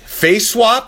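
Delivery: high, far-off pitchman call; hammed-up high announcement; mock announcer. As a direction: sell it like a game-show offer. Announcing the face swap deal.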